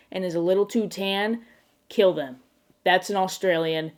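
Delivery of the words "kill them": quick, matter-of-fact "kill them"; "kill them" tossed out firmly, without drawing it out; brisk mock order. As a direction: give "kill them" as a short deadpan instruction. First, brisker take of repeated order.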